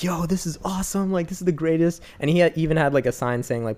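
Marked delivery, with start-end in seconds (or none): 0.0-2.0 higher, gushing delight; mock excited. Recalling riders' thrill at the fancy car, mock gushing. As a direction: play the thrilled passengers. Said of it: "we were just like".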